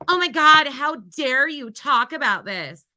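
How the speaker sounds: parodying scandalized critics; mocking outrage. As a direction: slowly ham up the pearl-clutching. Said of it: "everybody being like".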